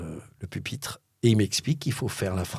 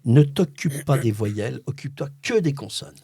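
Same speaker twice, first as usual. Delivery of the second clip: inner-voice instruction; 2 semitones higher than usual. Acted. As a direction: spell out the rule deliberately. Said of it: "la voix dans ma tête me dit".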